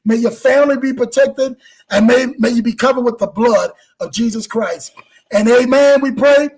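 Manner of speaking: steady spoken blessing over the audience; prayer blessing. Real, not acted. Host closing the show with a spoken blessing, steady and earnest. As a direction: pray it out like a pastor.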